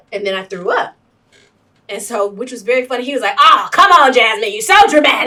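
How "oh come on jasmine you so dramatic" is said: mock dismissive. Mocking his dismissive words.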